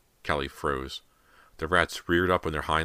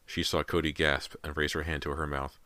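usual speaking voice

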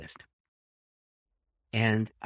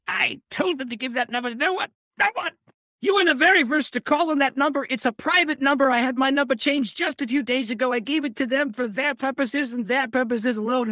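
high, loud, affronted British gentleman; stern British voice; 13 semitones higher, 6 dB louder than usual. Retold or imitated. British author scolding the caller about his private number, high and loud British. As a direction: bristle like an offended Englishman on the phone. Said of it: "this English voice got me".

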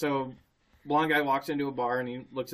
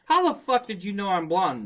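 louder and higher, baffled demand; baffled outburst; 5 semitones higher, 6 dB louder than usual. Retold or imitated. The bald guy asks the bartender, baffled and loud. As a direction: blurt it out as the bald guy in disbelief. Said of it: "And he goes".

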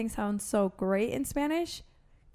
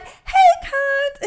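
high, loud teasing "hey"; mock rude greeting; 13 dB louder than usual. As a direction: fling it out like a playful insult.

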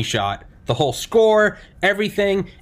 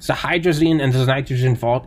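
put-on light German accent, raised pitch; 4 semitones higher than usual. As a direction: mimic a German engineer presenting. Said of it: "it's a thick German accent".

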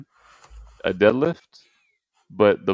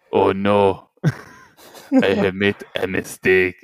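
Arnold impression; 2 semitones lower than usual. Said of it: "That's my Arnold impression".

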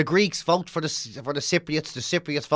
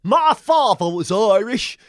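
mock indignant emigrant; 5 semitones higher, 4 dB louder, slower than usual. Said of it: "Irish pe".

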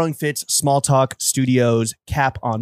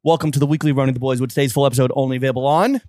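put-on London roadman accent. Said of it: "why we're talking in Man Dam accents".

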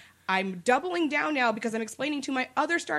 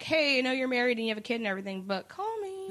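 flirty come-on; 2 semitones higher than usual. Retold or imitated. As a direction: imitate a fan coyly propositioning him. Women flirting with the actor, retold.

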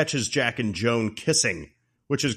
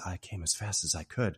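tag; 4 semitones lower, 8 dB quieter than usual. Retold or imitated. Voicing seductive neighbor at door.

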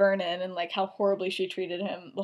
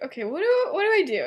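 high, wavering dithering; mock fluster; 9 semitones higher, faster than usual. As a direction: act out being flustered, pitch swooping up. Acting out his panicked dilemma.

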